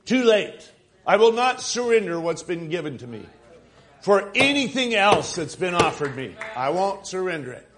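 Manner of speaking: forceful, emphatic sermon delivery; impassioned preaching. Real, not acted. Pastor vowing to the congregation he won't surrender, preaching hard. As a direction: preach it in driving, building phrases.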